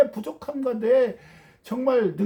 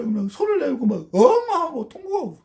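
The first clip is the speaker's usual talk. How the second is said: mock wailing; 3 semitones higher, 4 dB louder than usual. Describing wailing before God.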